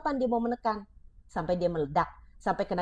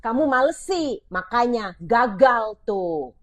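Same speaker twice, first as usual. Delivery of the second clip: put-on slow, blaming jab at a lazy child; a parent telling off a child for being lazy, mildly scornful; scolding parent; 3 dB louder, slower than usual. Shown as a demonstration.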